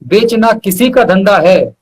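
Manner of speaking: measured shayari recital with weighty pauses; poetic recitation. Acted. Reciting his couplet to the host, measured and poetic. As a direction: lean into each line like a mushaira couplet.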